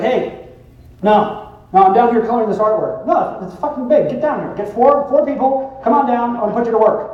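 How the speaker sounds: lightly voiced bossy organizer on a call; bossy woman on phone. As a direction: imitate someone rallying friends over the phone. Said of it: "she actually picked up her cell phone".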